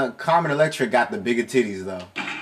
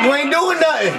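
put-on Jamaican accent; 12 semitones higher, 4 dB louder than usual. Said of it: "I can't do the accent right".

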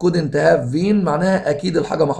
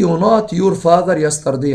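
slow dictation; much slower than usual. Shown as a demonstration. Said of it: "teacher reads exam sentence".

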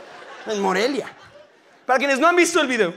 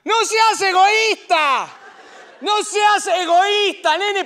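angry scolding shout; 10 semitones higher, much slower than usual. Pretend. Pope furiously scolding the pulling woman, slow high shout. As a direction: yell at her to stop being selfish. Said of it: "se pone a gritarle a la señora".

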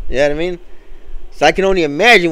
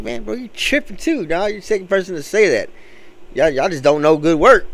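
higher, incredulous defending; indignant; 6 semitones higher than usual. Retold or imitated. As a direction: scoff at the customer's taste. Defending his product.

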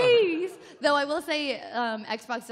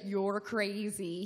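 put-on American accent; 2 semitones lower, much slower than usual. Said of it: "He uses, like, his American accent".

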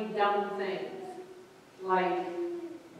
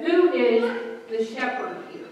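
retold question; 3 semitones higher, 8 dB louder than usual. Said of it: "one little boy yelled, or he said".

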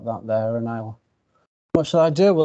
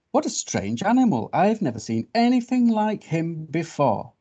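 lightly voiced, higher-pitched bird; amazed bird; 5 semitones higher than usual. Bird remarking on the sleeping strange animal, mildly amazed. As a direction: marvel at the odd newcomer in a raised pitch.

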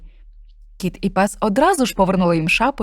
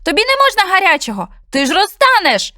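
high, louder urgent warning; alarmed cat; 10 semitones higher, 5 dB louder than usual. Acted. Cat warns snowman he will melt, high urgent. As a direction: plead in a panic.

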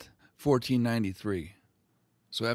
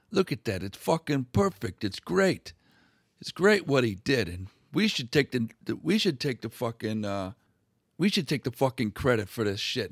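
mock pissed off. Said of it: "kinda pissed off".

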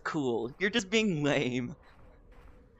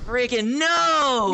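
loud slow groan; 5 semitones higher, 8 dB louder, much slower than usual. Real, not acted. Frustrated at game moment.

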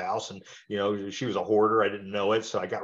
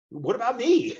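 higher, louder, mock wounded whine; acted agent, mock dismay; 12 semitones higher, 4 dB louder than usual. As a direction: play the agent who got left out. Agent realizes he lost sale.

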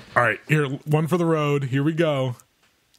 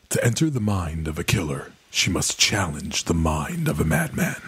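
sexy voice; 5 semitones lower than usual. Acted. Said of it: "Do you want me to say it in my sexy voice again?".

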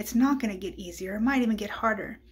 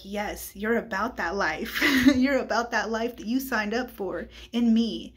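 a hint of God's voice, laughing it out; laughing approval; 3 dB louder than usual. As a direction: voice God's delight through laughter.

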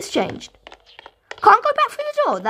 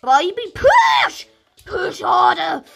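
mock midwife; 3 semitones higher, slower than usual. Mock labour coaching to push block.

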